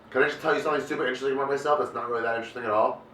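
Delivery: fast, self-absorbed rambling; cokehead voice. Retold or imitated. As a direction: brag like a wired cokehead. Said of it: "That's my impression of a coke kush".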